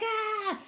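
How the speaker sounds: high-pitched "ah!" without extra volume; mock scream. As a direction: imitate a panicked little scream. Panicked scream retold in story.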